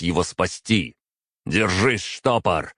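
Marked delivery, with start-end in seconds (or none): 1.5-2.7 shouting to the dying familiar. Acted. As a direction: call out to keep him holding on. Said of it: "крикнул я".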